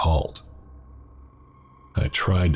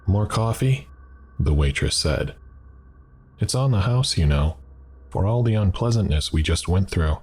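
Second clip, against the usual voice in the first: higher, chatty diner waitress voice; friendly waitress; 4 semitones higher than usual. Acted. Diner waitress to shaken customer, higher and chatty. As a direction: play the waitress offering free refills.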